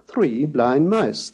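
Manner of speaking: "three blind mice" spoken slowly with the pitch falling on "mice". Shown as a demonstration. Lecturer showing the falling spoken glide. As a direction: state it, dropping on "mice".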